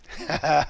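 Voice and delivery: short reminiscing laugh; brief acted laugh; put-on chuckle. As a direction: pretend to chuckle at an old memory. Acting out fond memory of girlfriend.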